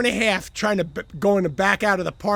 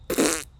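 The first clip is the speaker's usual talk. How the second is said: limp lip puff; imitated drunken conk-out; imitated passing-out noise; 4 semitones lower, 5 dB quieter than usual. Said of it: "and passes out".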